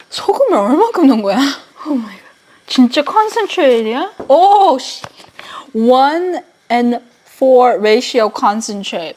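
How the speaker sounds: fast, loud flustered muttering; rushing to fix a mistake. Real, not acted. Panicked fixing salty broth.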